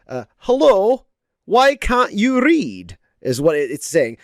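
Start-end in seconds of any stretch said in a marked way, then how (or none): 0.4-3.0 a light high squeaky cartoon voice; Pikachu voice. Shown as a demonstration. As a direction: do a cute high cartoon critter. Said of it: "in this case means".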